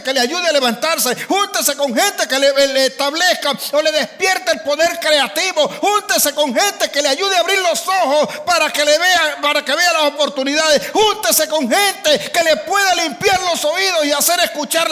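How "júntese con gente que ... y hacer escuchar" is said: higher and higher, ending in a shout; building exhortation. Acted. Preacher urging the congregation, building to a shout. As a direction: rise to a preaching cry.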